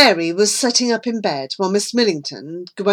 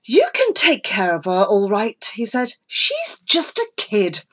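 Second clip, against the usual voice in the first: calming; 3 semitones higher than usual. Acted. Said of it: "Granger tried to calm things down".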